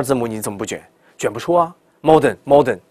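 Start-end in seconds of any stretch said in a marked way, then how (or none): 2.0-2.8 modern said heavily, no r; mock flat modern; wrong modern. Shown as a demonstration. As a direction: modern without the springy r. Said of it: "不要这么读".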